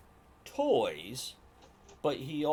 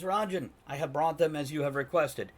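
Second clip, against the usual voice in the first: lightly voiced Fenkin; 5 semitones higher, 4 dB louder than usual. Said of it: "and Fenkin says".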